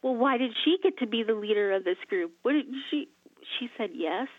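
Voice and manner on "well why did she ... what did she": mild mock indignation; put-out complaint, lightly acted; ticked off. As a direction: imitate someone griping in resentment. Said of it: "people would get ticked off".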